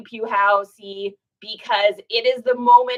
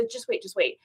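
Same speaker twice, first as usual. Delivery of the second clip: near tears; 3 semitones lower, 7 dB quieter than usual. Retold or imitated. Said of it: "I'm, like, on the verge of tears".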